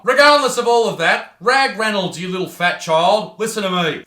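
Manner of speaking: loud, indignant telling-off; stern scolding. Acted. Host tells off rival YouTuber, stern scolding. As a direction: scold him with mock indignation.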